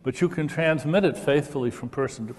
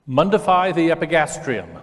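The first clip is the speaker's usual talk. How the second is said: slightly higher, carefully voiced model phrase; demo for repetition; 4 semitones higher, 4 dB louder than usual. Shown as a demonstration. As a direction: say it for the audience to repeat after you. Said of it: "to repeat after me".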